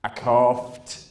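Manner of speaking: grumpy, resentful mutter; sulky, hard-done-by grumble; pissed off. Retold or imitated. Woman with a hernia answering, pissed off grumble. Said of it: "in the most pissed off voice you've ever heard".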